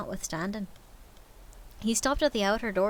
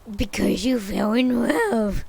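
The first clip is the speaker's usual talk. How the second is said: slow, louder growled sneer; mocking growl; 6 dB louder, slower than usual. Scrooge sneering at nephew's marriage, slow growl. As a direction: drag it out with scorn. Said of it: "growled Scrooge".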